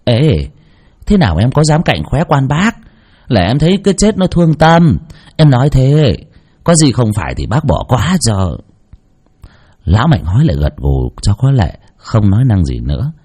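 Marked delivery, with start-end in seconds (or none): 0.0-8.6 defensive pleading. Acted. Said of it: "phân bua".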